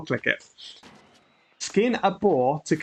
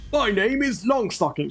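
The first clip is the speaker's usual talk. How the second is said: slightly higher character voice; 4 semitones higher than usual. Acted. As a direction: try out a voice for Longstocking. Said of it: "Should we have that voice?".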